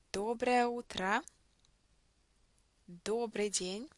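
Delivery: read-after-me Russian, stressed vowels held, as in "Здравствуй"; measured phrase-by-phrase reading, lengthened stressed а in "Здравствуй"; model pronunciation. Shown as a demonstration. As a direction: model each greeting for a learner, pausing after it, stressed о in "Доброе" held long. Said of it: "try to follow me with the reading".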